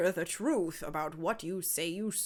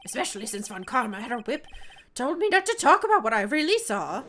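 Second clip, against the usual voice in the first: higher, sheepish clown voice; silly clown; 4 semitones higher, 5 dB louder than usual. Acted. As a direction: confess like a scared clown. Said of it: "When I did this clown voice".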